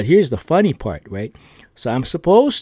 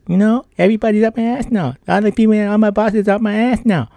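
imitated boss rant; 9 semitones higher than usual. Boss venting at Ron that everyone is up his ass, mock furious. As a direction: rattle it off like an exasperated boss.

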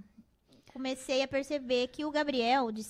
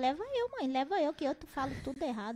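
lightly voiced eager son; eager child. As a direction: beg like a little boy. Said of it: "Daí o Gabriel falou".

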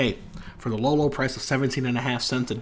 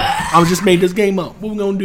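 mock flustered yelling; 5 semitones higher, 6 dB louder than usual. Mock confused game host.

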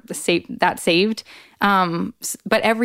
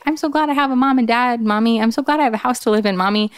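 put-on five-year-old; 4 semitones higher, faster than usual. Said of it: "My oldest, who was five, was like".

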